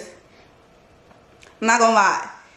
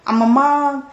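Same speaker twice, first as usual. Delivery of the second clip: happy exclamation; 5 semitones higher than usual. Retold or imitated. New mother recalling having her kids, happily exclaiming. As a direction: relive the happy realization, lifting pitch and volume. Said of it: "I was happy to have my kids".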